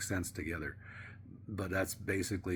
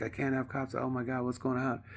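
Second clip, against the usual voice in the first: higher-pitched mock fretting; freaking out; 6 semitones higher than usual. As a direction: mildly imitate a landlord in a panic. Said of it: "she was freaking out".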